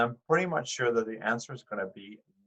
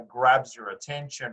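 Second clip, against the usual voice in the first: imitating students; 6 dB louder, slower than usual. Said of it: "a lot of people say".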